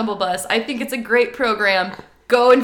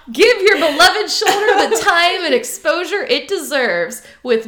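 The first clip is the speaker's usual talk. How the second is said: TV commercial voice; 3 semitones higher than usual. Acted. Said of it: "my best television reporter voice".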